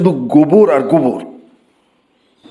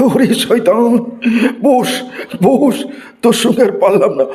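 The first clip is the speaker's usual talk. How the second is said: exasperated yell; 7 semitones higher, slower than usual. Acted. Teacher giving up on a cheeky student, laughing yell. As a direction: yell sit down, beaten by the joke. Teacher gives up, yelling sit.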